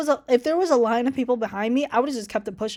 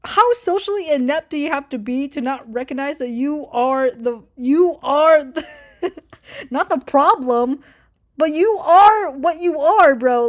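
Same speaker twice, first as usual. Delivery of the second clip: laughing rant; 3 semitones higher, 5 dB louder, slower than usual. Retold or imitated. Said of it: "I'm like".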